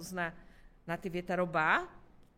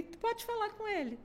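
quoting herself; 11 semitones higher, 4 dB quieter than usual. Retold or imitated. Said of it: "eu falei".

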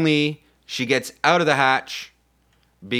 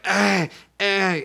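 short, higher-pitched effort grunts; mock straining grunts; 5 semitones higher than usual. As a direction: grunt as if struggling with a hurt arm. Miming struggle with injured arm.

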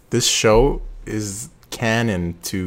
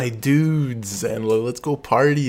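put-on frat boy Thor; 4 semitones higher, slower than usual. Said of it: "He was like".

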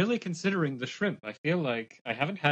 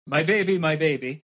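yelling; 2 semitones higher, 5 dB louder than usual. Acted. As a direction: call out after the baby. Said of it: "I want to yell".

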